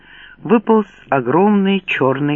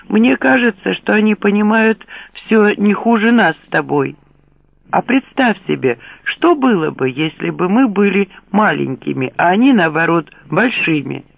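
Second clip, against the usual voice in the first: panicked trapped animal; 5 semitones higher than usual. Acted. Frightened worker keeps rambling.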